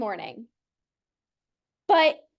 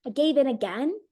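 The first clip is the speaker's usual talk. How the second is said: hopeless sigh. Retold or imitated. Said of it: "maybe even feelings of hopelessness".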